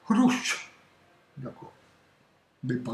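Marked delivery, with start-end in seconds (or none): 0.1-0.7 Rouch, sounded out slowly letter by letter; spelled-out syllable. Shown as a demonstration. Teacher sounding out Rouch for students. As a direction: build Rouch from its letters, carefully. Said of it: "ça vous fait".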